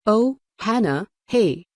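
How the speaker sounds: offhand greeting. A narrator's reading. Arrogant boy pretends he just noticed her, drawn-out offhand greeting. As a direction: stretch it out as if only now noticing her.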